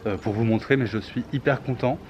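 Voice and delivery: muffled behind a face mask; talking with a mask on; through a face mask. Real, not acted. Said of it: "j'ai mon masque, je vais pas, euh, l'enlever".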